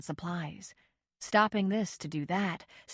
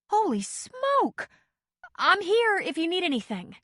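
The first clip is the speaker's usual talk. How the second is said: curious visitor in the doorway; clear and curious; 12 semitones higher, 6 dB louder than usual. A narrator's reading. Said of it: "clear and curious".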